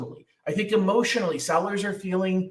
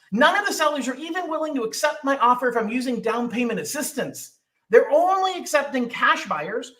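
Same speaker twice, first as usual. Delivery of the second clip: whiny client; 3 semitones higher than usual. Retold or imitated. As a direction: plead like a stuck buyer. Voicing frustrated would-be buyers.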